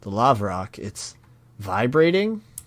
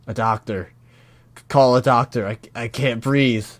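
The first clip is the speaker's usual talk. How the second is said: acted breathless plea; 6 dB louder than usual. Voicing choking character begging for doctor.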